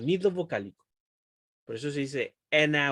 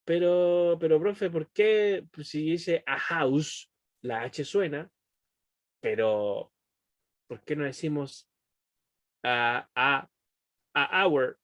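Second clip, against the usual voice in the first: imitating a confused student, louder with a rising pitch; puzzled student; 3 dB louder than usual. Teacher acting a student asking the profe. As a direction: play a baffled pupil asking the teacher. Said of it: "si un estudiante le pregunta".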